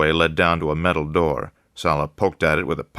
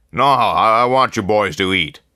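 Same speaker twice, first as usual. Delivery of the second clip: much higher, louder, hearty boss greeting; jolly newspaper boss welcoming the new man; effusive editor; 5 semitones higher, 6 dB louder than usual. A narrator's reading. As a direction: greet him like an old friend with big jolly warmth.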